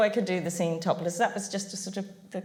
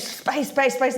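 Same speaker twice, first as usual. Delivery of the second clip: higher-pitched mock screech; rapid-fire mock outburst; retold screech; 3 semitones higher, 3 dB louder, slower than usual. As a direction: imitate someone screeching one word over and over.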